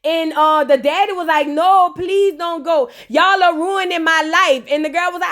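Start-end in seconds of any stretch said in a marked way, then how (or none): 1.5-4.6 slow, mock-begging father; hammed-up plea not to leave; pleading dad.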